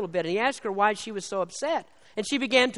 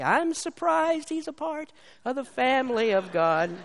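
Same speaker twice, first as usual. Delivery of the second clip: higher, wry mock-surprised aside; mock surprise; 4 semitones higher than usual. Preacher joking about a fellow church member, mock surprised. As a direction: tease the congregation with feigned disbelief. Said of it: "I look and I say".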